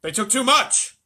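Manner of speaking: loud anxious exclamation; loud worried. A narrator's reading. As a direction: blurt it out worried. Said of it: "said Mister Bucket".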